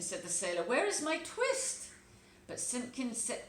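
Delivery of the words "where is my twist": put-on higher, louder and slow, an old tailor demanding. Old tailor asking his cat for the twist, high and slow. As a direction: press the cat for the missing thread.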